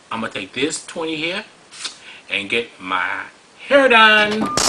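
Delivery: hint of a greedy gal counting her money; mock gleeful woman. Mocking women who live off child support, lightly voiced bragging woman.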